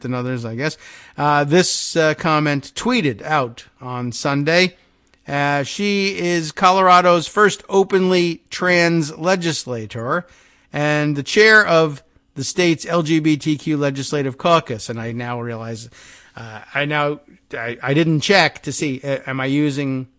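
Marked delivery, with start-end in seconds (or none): 5.6-14.9 measured, emphatic article reading; projected radio news delivery. Acted. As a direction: read the report out with deliberate weight. Reads the newspaper article aloud.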